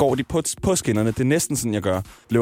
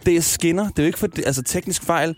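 mildly exasperated, higher-pitched inner rant; exasperated thought; 4 semitones higher than usual. Retold or imitated. Stranded passenger grumbling inwardly, mock exasperation. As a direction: replay the frustration, pitch rising. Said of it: "så sad jeg bare der og tænkte".

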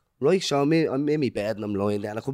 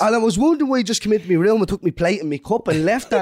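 high, laughing while explaining; giggly, raised-pitch admission; laughing confession; 6 semitones higher than usual. Real, not acted. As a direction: own up to the blunder through real laughter. Admits mistake while everyone laughs.

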